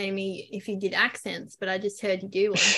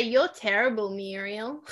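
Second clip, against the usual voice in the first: Australian accent. Shown as a demonstration. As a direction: quote the movie in an Australian accent. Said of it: "the movie with Toni Collette".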